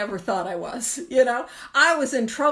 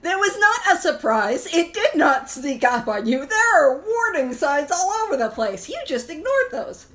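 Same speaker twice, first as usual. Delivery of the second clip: scolding Al-Anon friend; 3 dB louder than usual. Retold or imitated. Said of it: "She's gonna be like".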